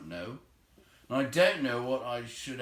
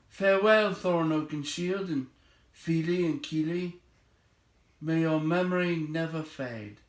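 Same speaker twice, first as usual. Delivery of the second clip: raised, ringing farewell to each dwarf; hearty farewell; 7 semitones higher, 5 dB louder than usual. A narrator's reading. Bilbo bidding the dwarves goodbye, ringing and loud. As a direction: call out each name warmly and loud. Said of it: "he added".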